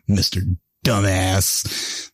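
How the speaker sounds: "Dumbass" split from "Mister" by a pause, flat; mock the applicant's naive reading; mispronounced name. Retelling the ad's applicant, a plain "Dumbass". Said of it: "so hilarious".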